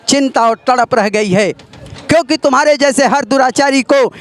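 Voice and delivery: stern epic hero addressing a villain; dramatic Ram dialogue. Acted. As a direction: deliver it like a righteous god-king rebuking his foe. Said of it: "उस समय का है dialogue". (नाटकीय राम संवाद)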